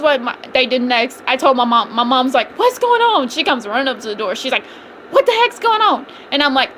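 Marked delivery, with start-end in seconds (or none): 2.6-3.3 high pitched voice of mom; a lightly voiced alarmed mom; mom's question. Mom called up to door. 5.1-6.0 high pitched voice of mom; a lightly voiced alarmed mom; mom's question.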